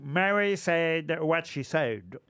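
slow, careful English accent from a Frenchman; best English accent. Shown as a demonstration. Host shows off the play's title to a teacher, English accent. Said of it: "je vais utiliser mon meilleur accent anglais".

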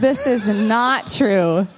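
slow, laughing shout of denial; real laughing objection; laughing protest. Real, not acted.

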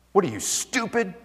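a hint of a sneering bully, soft; snide put-down from across the room; rude carpet guy. Carpet guy insults his wife, lightly sneering. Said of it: "And I hear this guy".

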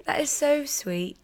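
high, coy mock British; playfully hammed-up high British voice; British accent. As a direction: coo it in a showy British lilt. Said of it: "you think my British accent is so good".

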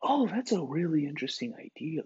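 near-whispered public radio tone; soft PBS host voice. Retold or imitated. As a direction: hush it like a podcast host. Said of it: "that stupid P B S, almost slight whisper".

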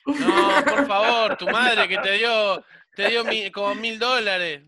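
hammed-up weepy plea; mock crying. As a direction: friend mock-weeps in the mother's defence. Mock weeping defending the mother.

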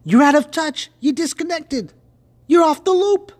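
high-pitched cartoon cat; talking cat. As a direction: read the cat with the pitch climbing each phrase. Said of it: "He, cat says".

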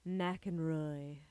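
slow, swooning book-blurb voice; dramatic blurb read. Retold or imitated. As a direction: read it like a romance cover. Reading the book's blurb dramatically.

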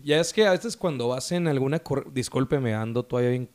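hoarse, worn-out voice from a cold. Real, not acted. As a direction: talk through a hoarse, sore throat. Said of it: "pinche ronco".

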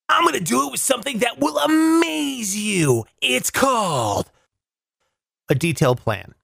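lightly voiced grand magician. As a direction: announce it like a showman. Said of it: "That's my magician voice".

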